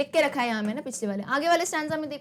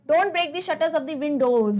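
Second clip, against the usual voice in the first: slow poem reading; 4 dB louder, much slower than usual. Shown as a demonstration. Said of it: "ध्यान से सुनना".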